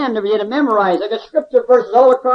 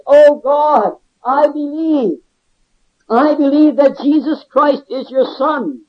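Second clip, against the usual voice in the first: fervent prayer. Retold or imitated. Convict praying to God in his cell, fervent prayer. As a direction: cry out a heartfelt retold prayer, measured and firm.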